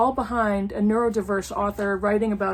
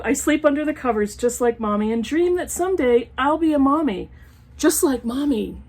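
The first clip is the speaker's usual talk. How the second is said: sing-song picture book reading; reading to children; 3 semitones higher than usual. Acted. Reading an old picture book aloud to her viewers, storytime voice. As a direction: read it like a storytime page.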